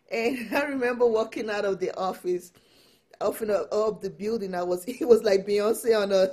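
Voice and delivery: loud laughing, beaming with pride; laughing proudly. Real, not acted. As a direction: laugh through it like a runway strut.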